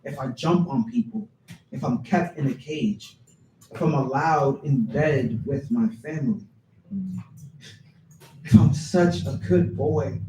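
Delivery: projected opening easing into measured questions; spoken-word poem. Acted. Poet voices a misjudged pit bull, performed poem reading. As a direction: recite it phrase by phrase, driving each question.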